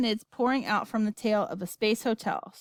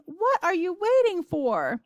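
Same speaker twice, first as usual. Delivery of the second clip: high, slow, frantic demand; screaming grandma; 9 semitones higher, 3 dB louder, slower than usual. A narrator's reading. Grandma pressing Wonka to move, screaming. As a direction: shriek it with drawn-out words. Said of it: "screamed Grandma Josephine".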